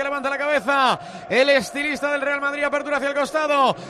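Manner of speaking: quick, driving radio match call; play-by-play commentary. Acted. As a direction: call the action live as it happens. Radio live football commentary.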